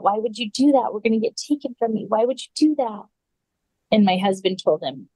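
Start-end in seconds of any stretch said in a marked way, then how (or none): 0.0-3.0 put-on upset child's protest, pitched higher; retold freak-out. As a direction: plead in alarm, imitating a panicked boy. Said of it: "he's freaking out".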